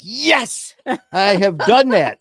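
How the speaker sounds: high mock confession. Relating to eating cake from fork.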